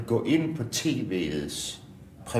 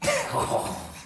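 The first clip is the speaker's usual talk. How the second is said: breathless, voiceless burst of laughter; airy laughing fit; 4 dB quieter than usual. Real, not acted. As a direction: laugh helplessly at a bad joke. Laughing after a tasteless joke.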